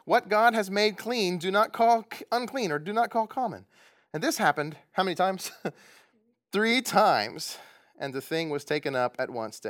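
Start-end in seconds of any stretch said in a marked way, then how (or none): 0.0-3.6 a touch of a commanding heavenly voice; lightly proclaimed divine command; voice of God. Retold or imitated. Pastor reading the voice from heaven, lightly commanding. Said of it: "the voice came a second time".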